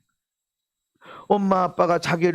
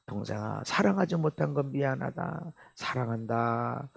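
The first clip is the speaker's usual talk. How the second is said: tender love; 4 semitones lower than usual. Shown as a demonstration. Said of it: "하고 칭찬해주고 감사하고 그렇게 사랑한다고 말해라".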